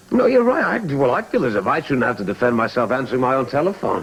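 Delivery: indignant retort. Acted. Husband defending his phone call to his wife, indignant. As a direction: throw the argument back in exasperation.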